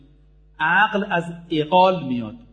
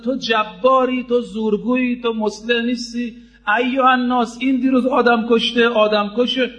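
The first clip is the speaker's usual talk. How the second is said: higher-pitched mock denunciation, not truly shouted; retold outcry; 4 semitones higher than usual. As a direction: act out accusing someone before a crowd. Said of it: "یه وقت فریاد زد".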